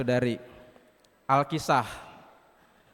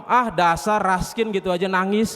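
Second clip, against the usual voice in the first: louder, lightly acted sneer; scornful taunt; 3 semitones higher, 5 dB louder than usual. Apem belittling the crying rice, scornful. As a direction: put down the crybaby, louder. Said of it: "Dicela lagi".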